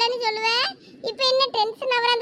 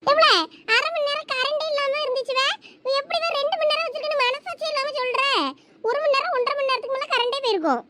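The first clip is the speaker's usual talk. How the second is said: high-pitched argumentative retort; indignant protest; 6 semitones higher than usual. Acted. Older sister disputes how long she had the remote, high indignant protest. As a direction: argue back, pitched well up.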